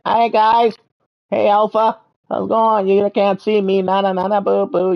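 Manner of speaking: high, bright cartoon critter teasing; high cartoon critter taunting the alphas; playful critter voice. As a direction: squeak it out like a cheeky little creature. Playing his creature greeting others.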